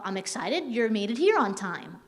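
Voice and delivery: mildly excited, lilting line. Shown as a demonstration. Trainer showing staff one way to say a sentence, excited. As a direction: say it with a touch of excitement. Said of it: "I could say it like".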